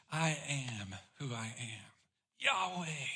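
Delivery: almost hush the name Yahweh; solemn hush. Acted. Jesus revealing his name to the arresting crowd, hushed and low.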